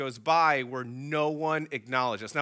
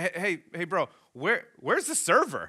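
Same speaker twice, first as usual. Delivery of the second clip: retold yell; 4 semitones higher than usual. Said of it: "I yell at the bartender again".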